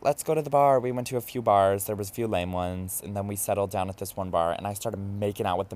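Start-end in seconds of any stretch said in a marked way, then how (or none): 0.0-0.8 higher and louder, eager to party; mock-excited rallying cry; excited suggestion. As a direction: pitch it up like the night's just starting. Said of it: "and we were like".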